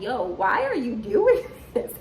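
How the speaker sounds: high, slow, laughing; incredulous through laughter; laughing disbelief. Retold or imitated. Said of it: "we was all just kinda like".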